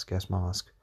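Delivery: gas mask with mask said as mahsk, long open ah; British gas mask. Shown as a demonstration. Podcaster repeating the British vowel for listeners. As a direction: hit mask with a broad British ah. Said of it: "it's a bit closer to the British".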